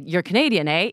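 mild Canadian tag "eh?" rising at the end; light Canadian accent, "eh?" lifted. Retold or imitated. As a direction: tack on a Canadian "eh?". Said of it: "he would say".

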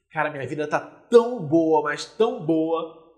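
"tão" stretched long and leaned on both times; emphatic gushing. Acted. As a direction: savour each "tão", slow and emphatic. Models contented single woman's boast. (ênfase arrastada em "tão")

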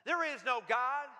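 mock shout of a grumpy atheist; half-strength scolding shout; retold shout. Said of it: "he would shout out at her".

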